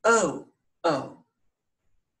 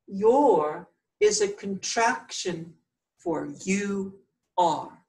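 slow explanation; slower than usual. Shown as a demonstration. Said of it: "If you can insert the words".

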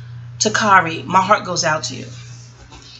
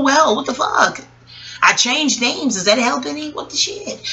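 higher, half-acted inner monologue; lightly voiced mother talking herself around; retelling Afeni Shakur; 4 semitones higher than usual. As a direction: argue it out with yourself, voice lifted. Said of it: "She said".

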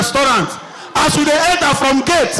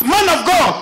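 mild mock shout, pitched up a little; shouted testimony; 3 semitones higher than usual. Church member announcing a striking testimony, imitated calling out. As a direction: call out to the pastor as an eager testifier. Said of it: "Person just shout".

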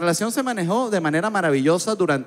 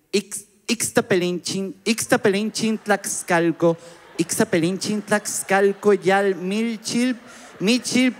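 higher, drawn-out syllable-by-syllable attempt; laboured sounding-out; 5 semitones higher, much slower than usual. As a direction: struggle slowly through a tongue-twisting name. Stumbling over long street name.

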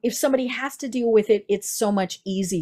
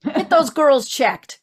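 laughing; 4 semitones higher, 4 dB louder, slower than usual. Real, not acted. Jokey health reminder, laughing.

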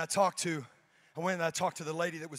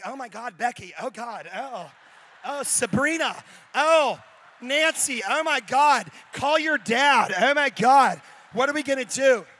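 panicked cries building higher and louder; a mock-frantic wail that climbs into shouting; scared girls; 4 semitones higher, 14 dB louder, slower than usual. Imitating the scared girls crying out for help. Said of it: "When white girls are scared".

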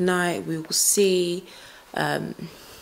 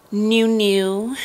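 excited; 3 semitones higher, 10 dB louder than usual. Real, not acted. Excited about her new boots.

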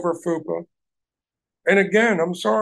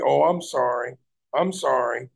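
mock apology; 5 semitones lower than usual. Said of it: "just say".

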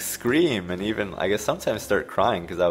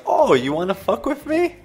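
much higher, rising shriek of a challenge; imitated furious yell; 5 dB louder than usual. Brother screaming at a cartridge that won't work, mock fury. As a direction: shriek it like a brother losing it at a game. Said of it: "he's like".

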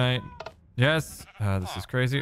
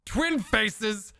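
still shocked; 8 semitones higher, slower than usual. Real, not acted. Still reeling, refusing.

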